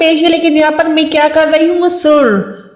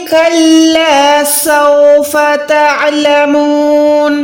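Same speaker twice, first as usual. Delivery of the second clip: slow, measured tajweed recitation; slow Quranic recitation; much slower than usual. Shown as a demonstration. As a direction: chant it slowly with tajweed.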